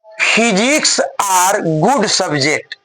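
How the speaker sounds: reads the sentence word by word, very slow; slow dictation. Shown as a demonstration. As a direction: dictate it slowly to the class. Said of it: "अगला है". (धीरे-धीरे लिखवाते हुए)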